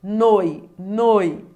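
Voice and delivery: "Noi, noi" loud on the o, falling away to i; decreasing diphthong demo. Shown as a demonstration. Teacher showing how you decrease, "Noi, noi" strong then weak. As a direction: swell on the o of each "Noi", then let the i drop. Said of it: "perceba que você decresceu".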